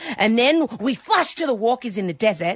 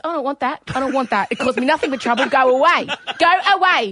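grumpy Luke voice; 3 semitones higher than usual. Retold or imitated.

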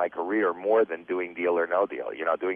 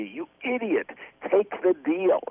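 imitated TV-viewer scream; 12 semitones higher than usual. Family at home yelling at the game show, imitated high mock scream. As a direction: holler at the contestant in a high, strained mock scream. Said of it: "just scream at the T V".

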